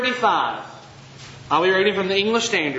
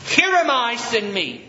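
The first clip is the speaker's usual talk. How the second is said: raised, bold declaration of Here am I; 3 semitones higher than usual. Shown as a demonstration. Pastor showing Isaiah's bold offer, raised and firm. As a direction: say it like you truly volunteer. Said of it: "That's a bold statement".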